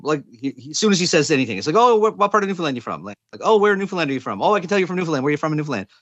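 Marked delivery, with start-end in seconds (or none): 1.8-3.0 higher, eager mock curiosity; imitating nosy strangers. Joke: strangers pestering the Newfoundlander. 3.4-5.9 eager, higher-pitched mock questioning; imitating nosy strangers. Joke: strangers pestering the Newfoundlander.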